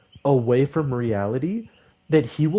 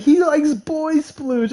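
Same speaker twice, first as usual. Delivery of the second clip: higher, slow, drawn-out mocking call; teasing taunt; 13 semitones higher, 5 dB louder, slower than usual. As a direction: taunt a classmate in a sing-song. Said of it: "He's like".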